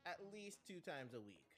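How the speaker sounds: low put-on trainer voice; approving coach. Coach praises Link after jumping exercises, low approving voice. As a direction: praise him in a deep, easygoing voice.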